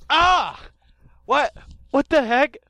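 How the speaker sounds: high, loud startled professor; a flustered scientist knocked over, squeaking; Professor Sycamore voice. Acted. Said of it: "Hi, I'm Professor Sycamore".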